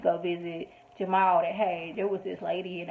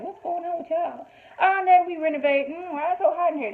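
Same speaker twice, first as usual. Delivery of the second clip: imitating Jamal; 9 semitones higher than usual. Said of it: "they're like".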